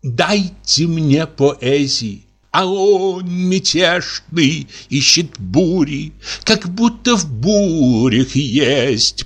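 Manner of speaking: slow theatrical recitation; poetic declamation. Acted. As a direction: declaim like a grand actress, slowly. Zmeyukina declaims poetry. (медленная театральная декламация)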